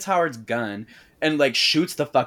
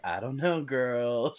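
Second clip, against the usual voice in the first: soft and blank; 7 dB quieter than usual. Retold or imitated. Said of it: "Stevie's like".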